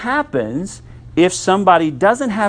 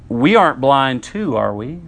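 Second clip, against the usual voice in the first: mildly sarcastic fake-innocent question; lightly mocking rhetorical question. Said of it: "kind of mockingly come to him".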